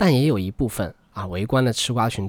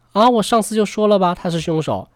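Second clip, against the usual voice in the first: gloating, high-pitched jump into an I-told-you-so; smug told-you-so; 4 semitones higher than usual. Retold or imitated. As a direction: crow like a know-it-all online commenter. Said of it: "之前的董哥们呢，瞬间就支棱了起来，一时间各种类似".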